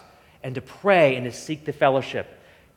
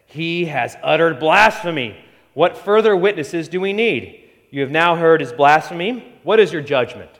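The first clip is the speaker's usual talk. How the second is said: raised, indignant accusation; 2 semitones higher, 5 dB louder than usual. Acted. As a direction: denounce him before the council. High priest accusing Jesus.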